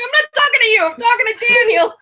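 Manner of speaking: high-pitched mock yell; re-enacted shouted clarification to her kid; retold yelling. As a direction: yell back in exasperation, hammed up. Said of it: "Why do you keep yelling".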